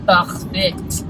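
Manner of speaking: shaky attempt at a French accent in English; playful, uncertain French-accented English. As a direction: put on a light French accent. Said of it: "I don't even know if that's a French accent".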